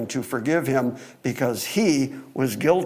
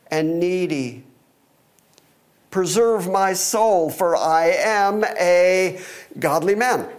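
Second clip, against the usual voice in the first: scripture reading. Acted. Preacher reads David's prayer to his congregation, solemn scripture reading. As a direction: read the verse with deliberate pauses.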